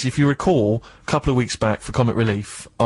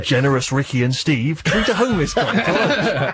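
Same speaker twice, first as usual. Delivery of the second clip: mock headline; 3 semitones higher, slower than usual.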